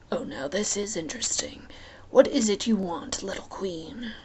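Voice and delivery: hint of a wicked god. Hades amused.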